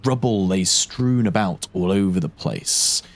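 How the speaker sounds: game master scene setting; slow, scene-setting narration. Acted. GM describes the scene.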